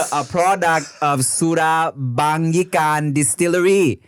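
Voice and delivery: put-on reading in a light Thai accent. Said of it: "And do it in a Thai accent, please".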